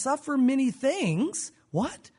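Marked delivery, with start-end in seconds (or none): 1.7-2.1 sharply rising, startled question; incredulous disciple. Acted. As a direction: cut in with mock disbelief. Disciples' shock at the news.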